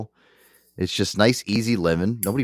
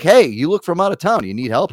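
friendly Chicago stranger; 7 semitones higher, 4 dB louder than usual. Retold or imitated. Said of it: "He's like".

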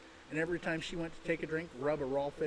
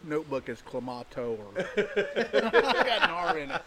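laughing; 6 dB louder than usual. Real, not acted. Laughing at own spelling.

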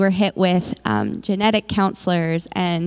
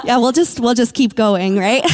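laughing; 3 semitones higher, 5 dB louder than usual. Real, not acted. Laughs at her own slip.

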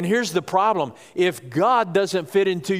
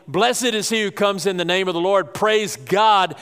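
higher, forceful preacher's quote; retold crowd yell; 5 semitones higher, 3 dB louder than usual. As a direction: proclaim it like a cheering crowd. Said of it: "be yelling".

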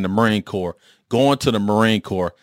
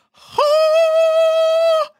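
very high, loud startled huh; stunned huh; 5 dB louder than usual. Retold or imitated. Manager shocked by the drill instructor order, startled.

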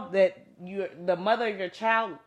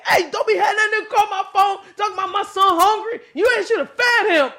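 higher, mocking angry rant; mock angry dad; 9 semitones higher, 4 dB louder than usual. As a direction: play the mad dad. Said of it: "bruh be mad".

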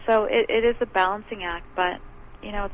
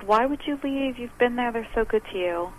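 mildly imitating an upset mother, higher at first; upset mom; 5 semitones higher than usual. Mother questioning her child leaving a good job, mildly upset. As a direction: retell a mom's dismayed questioning. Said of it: "my mom was so upset".

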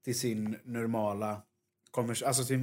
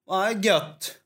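Stockholm-ish put-on; 8 semitones higher, 7 dB louder than usual. Switching dialect on arriving in Stockholm.

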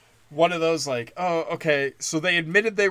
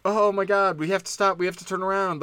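mock yell; 5 semitones higher than usual. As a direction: pretend to shout a warning at a moving crowd. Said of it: "I could stand there and yell".

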